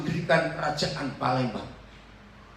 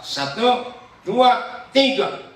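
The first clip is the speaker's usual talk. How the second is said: loud count; 6 semitones higher, 6 dB louder, much slower than usual. Shown as a demonstration. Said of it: "Baca yang kuat".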